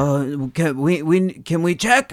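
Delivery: soft, high imitation of the cop; mocking officer. Imitating officer asking to search, soft and high. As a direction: lightly mimic a polite cop.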